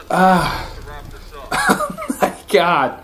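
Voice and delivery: high squeaky laugh, slow. Real, not acted. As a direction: laugh it out in disbelief. Laughing at the gore.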